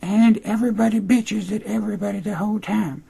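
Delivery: mocking sky-high falsetto, loud at first; hammed-up high-pitched boasting; Emma Duvall. Host voicing the writer as Emma, squealed mock falsetto. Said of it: "And so it's just like".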